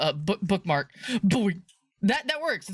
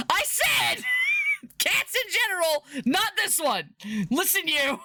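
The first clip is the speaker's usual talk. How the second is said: mock scolding; 11 semitones higher, slower than usual. Scolding game cat playfully.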